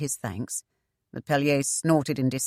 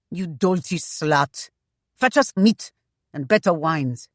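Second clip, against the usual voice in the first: louder demanding captain; rough command; 4 dB louder than usual. Acted. Pellier orders the frightened girl for food, harsh and loud. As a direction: order her off with contempt.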